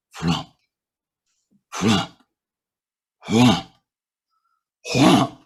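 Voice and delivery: low thudding "flump" for giant footsteps, swelling toward the end; mock heavy footfalls; heavy stomping footsteps. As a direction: imitate heavy stomps behind the tent. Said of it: "And I hear".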